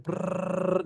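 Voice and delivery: rolled-lip brrrr; quick trilled sweep of sound; imitated clattering noise. Telling how the kits got raked in, imitated brrrr.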